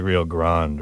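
Rio Grande without the final "ay"; one-syllable Grande. Shown as a demonstration. Host unsure of the river's name, "Grande" as one syllable. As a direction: say Grande as "grahnd", no "ay" ending. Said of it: "it's not called the Rio Grande".

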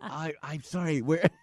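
soft, halting confused reply; hushed, hesitant mock bewilderment; baffled apology. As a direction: stammer it softly, lost.

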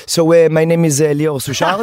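mock French accent, lightly done. Shown as a demonstration. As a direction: introduce yourself with a hint of French accent. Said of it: "in France ... it's like this".

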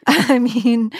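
real laugh breaking into the answer. Real, not acted. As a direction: laugh before and after the words. Laughs at own blunt answer.

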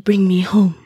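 breathy ghost whisper; ghostly whisper. Retold or imitated. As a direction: whisper it like a spirit.

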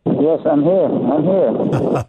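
muffled phone line; muffled, like through a wall. Real, not acted. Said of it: "it sounds like you're a little muffled".

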